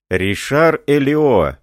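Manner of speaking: sudden alarmed outcry on the name; shocked exclamation. A narrator's reading. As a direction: cry out the name Ришар Элио in alarm. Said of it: "воскликнул офицер".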